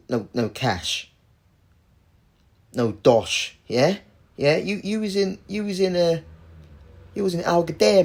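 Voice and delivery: hammed-up Cockney interrogation; Cockney accent. Taxman challenging a claimant with no cash, mock Cockney accent. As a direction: put on a doubting Cockney official. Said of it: "that British Cockney accent".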